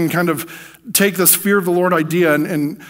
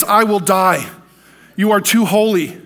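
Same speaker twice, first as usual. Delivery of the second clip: fearful plea; 4 semitones higher, 4 dB louder, slower than usual. Retold or imitated. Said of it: "And I was like".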